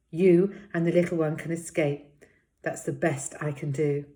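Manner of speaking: shaky, broken voice. Acted. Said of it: "her voice was shaky and broken".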